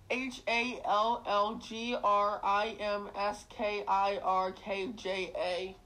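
"H A L L G R I M S K I R K J A" spelled letter by letter, slowly; each letter of "H A L L G R I M S K I R K J A" said separately and slowly; spelling it out. Shown as a demonstration. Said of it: "I'll spell it for you".

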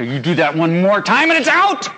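hammed-up angry parent, building to the last word; mock parental threat. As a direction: threaten the baby as a joke. Acted parent threatening a baby.

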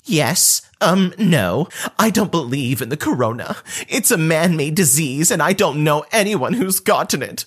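lightly voiced entitled cousin ranting. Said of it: "goes off on a rant".

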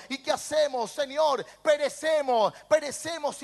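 mildly dramatized panic; frightened pleading. Acted. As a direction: plead like disciples afraid of drowning. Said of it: "los discípulos están con miedo".

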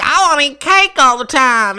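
mocking a dumb Southern hick, high and loud; lightly imitating a Southern hick craving cake; southern hick accent. Mocking the dumb hick character with a Southern accent. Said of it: "they give her this southern accent".

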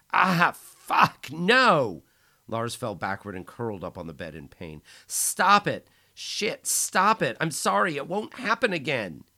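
high, loud desperate cries; pained pleading. Acted. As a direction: beg in agony. Squeezed, pleading in pain.

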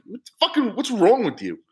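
retelling his disgust at a coworker, high and baffled; incredulous. Retold or imitated. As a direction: squeak out how baffled you were. Retold outrage at coworker.

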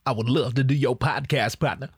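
lightly voiced E-40 begging, humble; a hint of E-40 pleading please, oh, please; E-40 impression. E-40 begging to join the podcast, mild pleading E-40 voice. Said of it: "I could do an E forty impression".

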